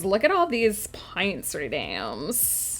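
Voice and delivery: put-on swooping valley girl singsong. Streamer playing up a viewer's redeem, valley girl voice. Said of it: "talk like a valley girl for the next five minutes".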